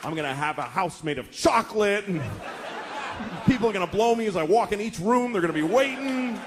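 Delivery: giddy daydream of riches; poor man dreaming big; dreamy fantasizing. Retold or imitated. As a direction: savor each silly detail of the dream. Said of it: "whole rich life all planned out".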